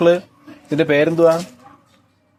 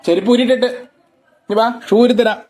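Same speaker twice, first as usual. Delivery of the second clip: coaxing call; 4 dB quieter, slower than usual. Real, not acted. Calling child to come.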